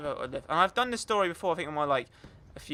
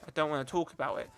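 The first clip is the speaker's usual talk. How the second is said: mock brush-off; 4 semitones lower, 5 dB quieter, faster than usual. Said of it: "But girls will be like".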